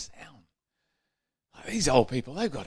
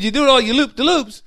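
put-on old husband explaining; 12 semitones higher, 6 dB louder than usual. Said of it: "he said".

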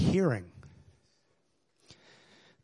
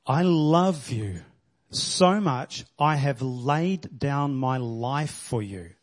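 tender groom; slower than usual. Acted. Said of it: "Think about the guy".

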